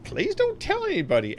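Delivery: lightly voiced old miner; a touch of old prospector, pitch leaping up. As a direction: imitate an old miner confiding in a child. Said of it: "There was this old miner".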